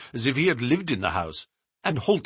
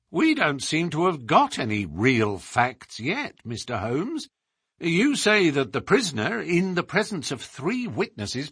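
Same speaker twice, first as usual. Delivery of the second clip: higher, emphatic inspector with rising questions; animated police inspector in story dialogue; challenging inspector; 9 semitones higher, 3 dB louder than usual. Acted. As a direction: press the detective for his facts.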